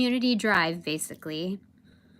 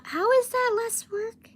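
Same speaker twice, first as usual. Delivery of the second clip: "how is that less work?" pitched much higher in disbelief; exasperated disbelief; 13 semitones higher than usual. Real, not acted. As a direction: throw the question up in outrage. Exasperated rhetorical question.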